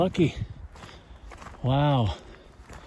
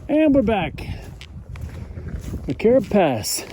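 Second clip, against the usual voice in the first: cheerful announcement; 4 semitones higher, slower than usual. Real, not acted. Reaching the pass.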